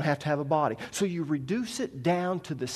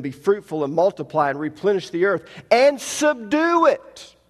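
emphatic, raised scripture reading; 4 semitones higher, 5 dB louder than usual. Acted. Preacher reads God's command to the congregation, emphatic scripture reading. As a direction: read it out with ringing emphasis.

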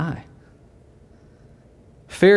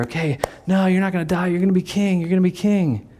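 higher, eager, soothing insistence; disciples reassuring Jesus; 6 semitones higher than usual. Retold or imitated. Disciples reassuring Jesus in a higher, eager voice. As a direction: coax him out of dying. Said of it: "disciples voiced, reassuring Jesus".

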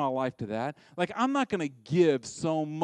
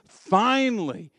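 delighted relief; 6 semitones higher, 6 dB louder, much slower than usual. Acted. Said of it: "He loves it because he says".

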